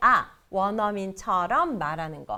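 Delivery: ordinary delivery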